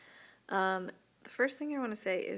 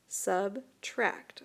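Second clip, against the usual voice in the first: "Subtract" whispered and split into its two syllables. Shown as a demonstration. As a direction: break "Subtract" apart in a hushed whisper. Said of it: "how would you separate subtract into two syllables".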